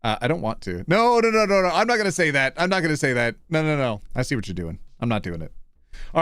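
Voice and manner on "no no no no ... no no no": insistent refusal. Pretend. Streamer refusing chat's accent request, playful insistent protest. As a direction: shut it down at once.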